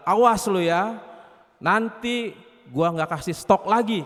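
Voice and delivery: slow, deliberate mock threat; warning threat. Rice warning its bullies, mock-threatening. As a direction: warn them off, punching the first words. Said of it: "pada saat dia mencela".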